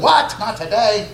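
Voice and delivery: squeaky mock outrage at the verse; mock indignant wife. Mock wife reacting to submission.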